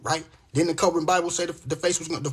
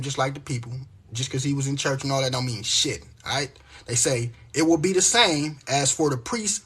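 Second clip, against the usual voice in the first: scripture reading. Acted. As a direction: read the verses like a preacher. Reads Isaiah aloud.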